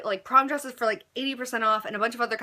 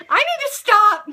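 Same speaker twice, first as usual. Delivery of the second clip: higher, louder self-scolding shout; exasperated yell; 12 semitones higher, 11 dB louder, slower than usual. Real, not acted. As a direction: yell at yourself to stop. Laughing at own silliness.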